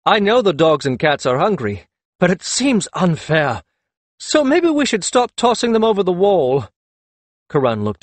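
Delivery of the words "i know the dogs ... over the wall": high voiced heroine. Akhet Ten protests, giggly.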